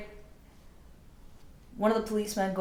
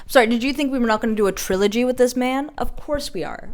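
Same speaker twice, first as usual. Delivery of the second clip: higher, louder and fast teasing; playful excitement; 6 semitones higher, 7 dB louder, faster than usual. Real, not acted. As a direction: tease the viewers, bubbling over. Teasing the audience about a trilogy.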